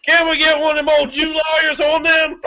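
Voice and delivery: outraged. Pretend. Angry at the news on the phone.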